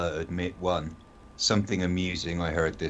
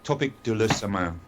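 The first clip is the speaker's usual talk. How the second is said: Topic de la semaine in a clumsy English-French accent; corrected but bad French accent; 3 semitones higher than usual. Shown as a demonstration. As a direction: try the French again, still English-flavoured. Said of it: "Your French accent is horrible".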